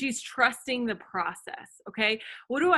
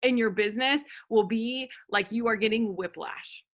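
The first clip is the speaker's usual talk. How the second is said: ordinary talk, nothing marked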